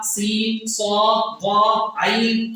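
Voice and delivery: سین صاد ضاد عین each letter sounded out slowly and distinctly; letter sounds. Shown as a demonstration. Teacher sounding out Arabic letters for listeners, slow and careful. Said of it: "کیسے نکلنے چاہیے".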